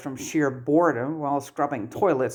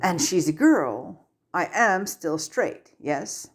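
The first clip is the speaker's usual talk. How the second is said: careful; 3 semitones higher, slower than usual. Acted. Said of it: "almost feeling out the words".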